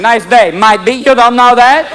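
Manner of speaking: lightly voiced complaining hyena; kvetch, pitch climbing toward the end. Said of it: "a little cage full of kvetching hyenas going".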